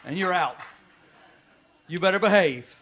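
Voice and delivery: a hint of a scolding God, laughing; lightly voiced God. Pastor joking about God's eraser, lightly voiced scolding God. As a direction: play God with a wink. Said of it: "It's like God says".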